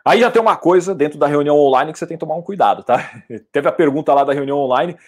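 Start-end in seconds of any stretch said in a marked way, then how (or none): none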